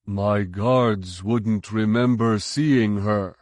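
slow flat monotone, mind-tricked. Retold or imitated. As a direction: repeat it like a hypnotised guard. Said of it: "mimicked the monotone voice".

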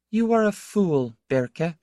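high, cutting contempt; scornful. A narrator's reading. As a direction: put him down sharply. Laura scorns him in a quarrel.

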